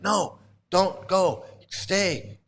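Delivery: retold fit. Controlling man to passenger leaving the car, mock fit. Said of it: "Yashoda's having a fit".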